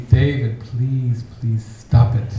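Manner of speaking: exasperated plea, hitting the key words hard; imitating fed-up classmates; pleading classmates. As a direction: beg them to stop, emphatic and fed up. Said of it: "fellow classmates saying to me".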